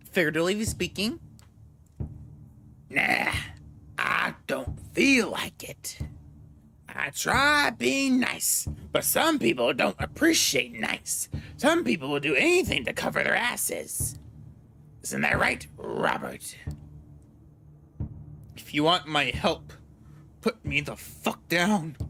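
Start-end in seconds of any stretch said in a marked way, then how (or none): 2.9-3.3 lightly voiced smug informant; sly informant voice. Voicing Larson, thin-blood informant. 4.0-6.0 slow whispered taunt; whispered refusal. Acted. 6.9-22.0 lightly voiced smug informant; sly informant voice. Voicing Larson, thin-blood informant.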